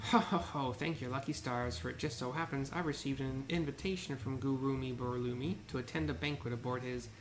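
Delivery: ancient rasping undead king. Acted. Voices pompous merchant.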